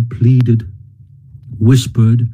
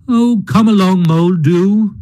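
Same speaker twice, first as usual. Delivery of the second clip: cheerful; 4 semitones higher than usual. Acted. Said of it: "rat cheerfully".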